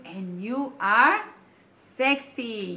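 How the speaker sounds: playful flirt. Real, not acted. Playful compliment to viewers.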